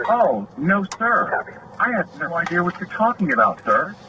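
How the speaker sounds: a touch of smug, sing-song innocence; mocking fake innocence. Cop imitating the smirking officer with mild mock innocence. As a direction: lightly imitate a smug, eye-rolling denial. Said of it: "rolled his eyes and smiled and goes".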